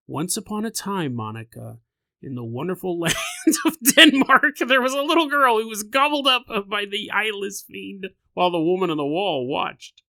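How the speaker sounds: storybook voice, a spooky twist creeping in; mock bedtime story voice. Mother reading her daughter a bedtime story, mock storybook voice. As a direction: read it like a sweet fairy tale that turns creepy.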